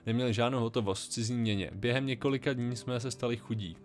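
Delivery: earnest plea for shelter, only lightly acted; a hint of a worried young lawyer; reading a character's lines. Reads Emilia's story aloud.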